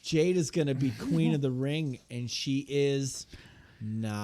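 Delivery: lightly mocked wrestler's promo; slow build to a drawn-out pause, then drop the punchline; mock scripted taunt; Nia Jax. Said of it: "Nia Jax goes".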